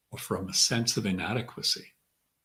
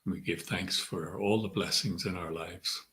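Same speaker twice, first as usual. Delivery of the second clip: measured meditation guide, long pauses between phrases; guided meditation. Acted. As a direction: ease them inward, leaving room to breathe. Leads a centering meditation.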